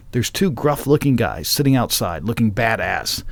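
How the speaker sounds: scene-setting narration; script read-aloud. Acted. Host reads the radio play setup, storytelling read-aloud. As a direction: narrate the biker intro from the page.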